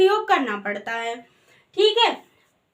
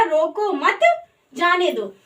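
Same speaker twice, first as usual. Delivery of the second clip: "रोको मत" together, pause, then "जाने दो"; comma pause; slower than usual. Shown as a demonstration. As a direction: break after "मत", letting "जाने दो" fall. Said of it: "इसका मतलब हुआ".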